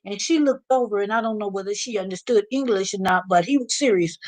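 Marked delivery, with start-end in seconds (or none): none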